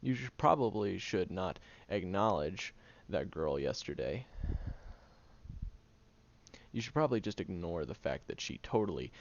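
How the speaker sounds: hammed-up sarcastic lecture, half shouting; mock pep talk to the guy. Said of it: "I'm not gonna go up to him and explain".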